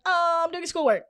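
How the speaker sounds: high, put-on innocent cover-up; high feigned innocence. Daughter hides chatting from mom, high innocent voice. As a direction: pitch it up like a kid covering up.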